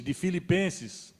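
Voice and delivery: normal talking voice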